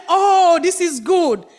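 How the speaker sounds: high, loud delighted oh; delighted frogs. Acted. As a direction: savour it like cool milk.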